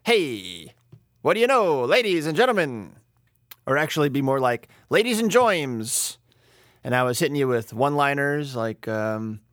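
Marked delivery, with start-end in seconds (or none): 0.0-2.9 mock showbiz greeting to the crowd; vaudeville showman. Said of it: "if I was a little more like". 4.9-6.2 put-on slow, higher old-school New York comic with "joims" for germs; mock Catskills emcee. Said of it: "being kinda Catskills".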